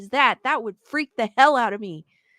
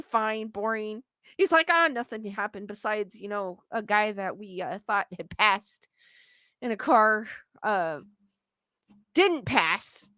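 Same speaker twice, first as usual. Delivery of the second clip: offhand, lower and quieter; bored husband; 4 semitones lower, 4 dB quieter than usual. Retold or imitated. Husband home from work answering his wife, offhand. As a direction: shrug it off like nothing happened.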